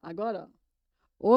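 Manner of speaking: ordinary talk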